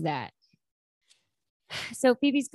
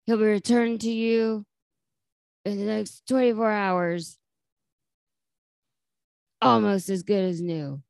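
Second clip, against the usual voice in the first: lightly voiced kidnapper call; a hint of a gruff ransom caller, unhurried; Joey's gravelly voice. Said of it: "really low, gravelly voice going on".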